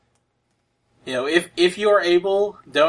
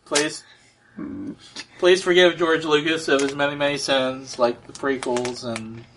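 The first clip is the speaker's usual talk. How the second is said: mock prayer. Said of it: "now let us pray".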